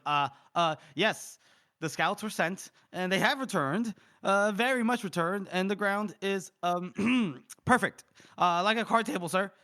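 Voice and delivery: put-on uneasy subordinate, slowing at the end; nervous report. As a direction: stall between phrases, unsure of the answer. Acting out a nervous scout reporting.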